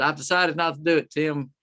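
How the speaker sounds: mild call across a distance; retold holler. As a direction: raise the voice a little, as if hollering to a buddy. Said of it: "he hollered back at me".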